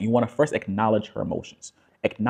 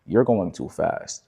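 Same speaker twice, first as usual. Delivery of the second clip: calm, slowing voice; slower than usual. Shown as a demonstration. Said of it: "it's giving her this indirect kind of energy".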